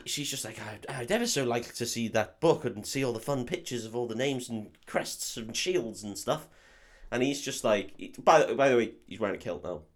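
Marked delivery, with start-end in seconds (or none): 0.6-6.5 softly imitated posh English girl; mock-posh English, slowing at the end; posh English accent. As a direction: do a very proper English young lady, softly. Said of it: "she's incredibly posh".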